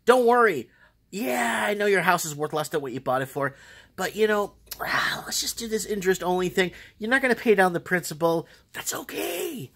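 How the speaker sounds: high, fake-soothing lender voice; mock reassurance. Lender soothing underwater borrowers, hammed-up high reassurance. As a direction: reassure them in a mocking high pitch.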